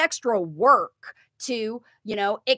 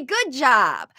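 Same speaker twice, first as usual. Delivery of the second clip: praise; 4 dB louder than usual. Shown as a demonstration. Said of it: "Then you say".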